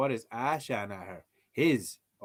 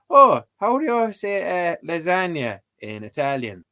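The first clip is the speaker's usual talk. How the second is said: mock questioner; 4 semitones higher, 4 dB louder than usual. Mocking people who won't learn Irish.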